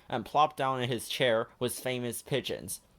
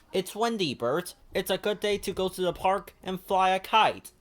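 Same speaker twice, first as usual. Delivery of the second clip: high, bright puppet-like Ernie; eager Ernie calling his friend; 6 semitones higher, 4 dB louder than usual. Acted. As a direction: lift into a cheerful high Ernie. Ernie's voice in story.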